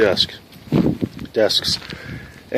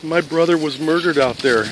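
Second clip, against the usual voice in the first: halting, higher grief-struck sister; retold tearful halting voice; imitated crying caller; 4 semitones higher than usual. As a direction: act out grief with long breaks. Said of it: "she's crying very hard".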